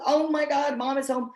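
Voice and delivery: high, gushing dog voice; the dogs overjoyed that mom is home; high squeal of welcome; excited dog. Retold or imitated. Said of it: "And if they're like".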